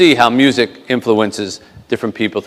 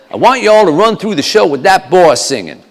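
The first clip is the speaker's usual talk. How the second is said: higher-pitched Southern boss voice; Southern colonel giving orders; 6 semitones higher than usual. Acted. Colonel tells the band to rehearse, Southern accent. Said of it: "the colonel turns to us and says".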